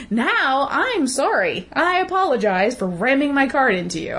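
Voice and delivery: drip fake contrition after the crash; sarcastic apology. After ramming a cart into a shopper, sarcastic mock-sweet sorry. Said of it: "ram my cart into you and be like".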